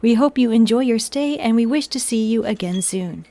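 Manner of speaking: even, pleasant automated announcer; robot voice. Pretend. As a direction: read it like a machine greeting. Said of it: "Robot voice is over".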